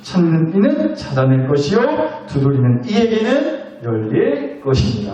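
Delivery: measured recitation with rising phrase ends; scripture reading. Acted. Preacher reading Matthew to the congregation, measured scripture recitation. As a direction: read the verse out phrase by phrase. Reads a famous scripture verse aloud.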